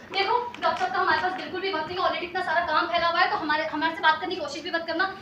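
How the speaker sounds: ordinary talk, nothing marked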